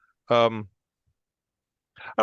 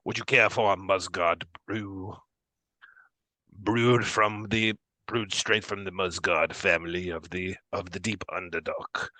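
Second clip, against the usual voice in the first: lightly voiced genteel old hostess; granny Duergar woman; 2 semitones lower than usual. Granny Duergar offers guests her brew, lightly voiced granny. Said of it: "she turns and says".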